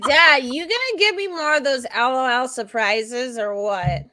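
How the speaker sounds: groggy daughter voice. Retold or imitated. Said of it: "She was like".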